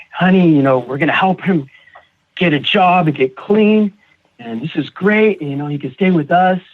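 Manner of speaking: a touch of eager fatherly delight; excited dad. Retold or imitated. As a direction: imitate a hopeful dad lightly. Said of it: "my dad was so excited".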